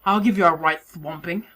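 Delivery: hammed-up Australian accent; broad mock Australian; stereotyped Australian accent. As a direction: do a bad Australian tough talker. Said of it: "embarrassed by my Australian stereotype delivery".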